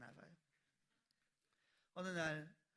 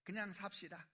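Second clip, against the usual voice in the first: mock declaration; 4 semitones higher, 9 dB louder than usual. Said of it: "남편에게 선포하더래요".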